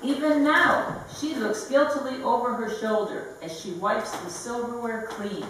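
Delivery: deliberate, phrase by phrase recital; measured poem delivery; poetry reading. Acted. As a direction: read each image separately, with a pause after it. Reads own poem aloud.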